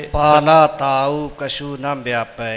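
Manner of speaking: slow chanted demo with ਪਾਲਾ said light and soft; ਪਾਲਾ ਨਰਮ ਉਚਾਰਨ; correct soft ਪਾਲਾ. Shown as a demonstration. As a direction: model ਪਾਲਾ gently, no weight on it. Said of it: "ਇੱਥੇ ਪਾਲਾ ਪੋਲੇ ਉਚਾਰਨ ਕਰਨਾ".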